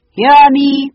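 high, ringing proclamation; loud cry. A narrator's reading. Phoenix calling the children to listen, loud grand cry. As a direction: cry out like a herald demanding attention. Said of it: "it cried".

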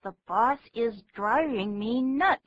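exasperated, rising hard into "nuts"; angry griping. Shown as a demonstration. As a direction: grumble it with teeth clenched. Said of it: "生气的时候，好像牙齿会真的紧闭着".

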